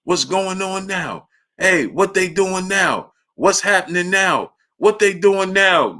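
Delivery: mock confused old man asking what's happening; imitating blind great-uncle. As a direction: play the old uncle pestering for updates. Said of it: "the whole time it's just".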